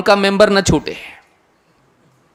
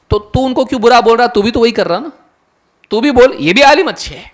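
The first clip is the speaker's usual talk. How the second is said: higher, pressing challenge to an imagined critic; mock confrontation; 4 semitones higher than usual. Preacher rebuking someone who criticizes scholars, mock confrontation. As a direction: argue back, pitched up and insistent.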